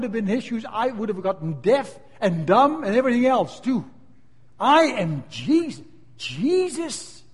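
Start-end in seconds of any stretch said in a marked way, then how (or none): 4.6-7.2 very slow, drawn-out solemn declaration; voice of Jesus. Acted. Jesus speaking to Saul, very slow and solemn. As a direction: stretch every word, heavy and holy.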